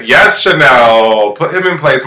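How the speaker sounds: drawn-out, relishing cheer; hammed-up approving whoop in words; retold cheering on. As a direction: egg her on, stretching the words. Cheering on a contestant.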